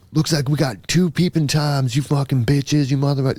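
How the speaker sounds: imitating an angry neighbor, high-pitched; high, mock-outraged tirade at normal volume; mock flipping out. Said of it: "it starts flipping out".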